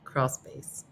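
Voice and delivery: crawl space breathed in a whisper; hushed, sheepish whisper of crawl space; whispered euphemism. Real, not acted. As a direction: whisper it like a naughty secret. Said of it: "I'm not gonna say it".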